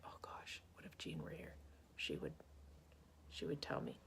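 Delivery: a hint of hushed guilt; hushed worry. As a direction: murmur a guilty worry to yourself. Imagining Jean scolding.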